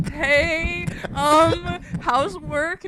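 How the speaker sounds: hammed-up breezy call to mentor; mock casual. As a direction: sound too casual on purpose.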